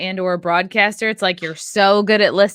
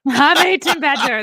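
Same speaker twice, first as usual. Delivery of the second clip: put-on playful stab at an Irish accent; lightly mocked Irish accent; almost Irish accent; 5 semitones higher than usual. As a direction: copy the Irish-sounding lilt. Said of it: "That almost sounds Irish".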